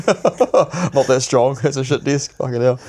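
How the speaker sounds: slow, laughing through it. Real, not acted. Man laughing about his broken desk, slow and amused.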